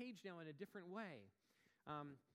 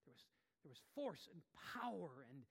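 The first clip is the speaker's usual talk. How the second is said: whispered. Real, not acted. Preacher drops voice.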